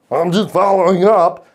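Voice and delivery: whiny "I'm just following up"; mock needy salesman. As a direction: parody a pushy rep. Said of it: "but you sound like that".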